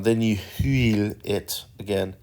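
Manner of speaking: put-on teasing French accent on huile; mock French accent. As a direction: toss in the Frenchy huile playfully. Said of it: "funny little silly French accents".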